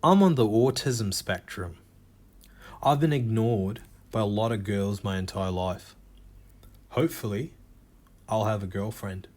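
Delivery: a light Australian accent, mildly voiced. A stand-up quotes an Australian dating-show contestant in a light Australian accent. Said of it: "I'm gonna do an Australian accent".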